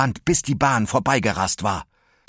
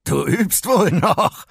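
much higher, louder, slow taunting villain; slow high gloating taunt; laughing Electro; 11 semitones higher, 6 dB louder, slower than usual. Acted. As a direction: gloat at the missed shot. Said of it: "meinte Electro lachend".

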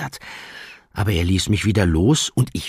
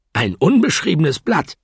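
grinning; 12 semitones higher, 7 dB louder than usual. Acted. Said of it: "grinste ich".

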